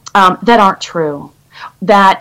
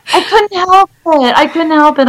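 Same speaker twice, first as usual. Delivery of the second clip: laughing; 7 semitones higher than usual. Real, not acted. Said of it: "laughing, retelling own blurt".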